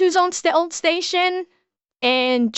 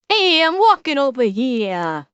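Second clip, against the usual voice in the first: a light Midwestern accent, drawn slowly; slow Midwestern vowels, broad and easy. Shown as a demonstration. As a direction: Midwestern accent shown in a slow casual line. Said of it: "a broad Midwestern accent".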